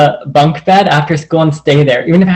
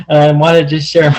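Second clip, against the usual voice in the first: normal talking voice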